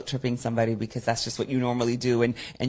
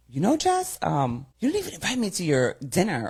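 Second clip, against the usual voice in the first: lightly voiced complaint, pitched higher; mock a friend's guilt trip, high-pitched; imitated guilt-tripping friend; 5 semitones higher than usual. Friend calls about missed birthday dinner, high imitated guilt trip. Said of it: "He calls me to wish me happy birthday".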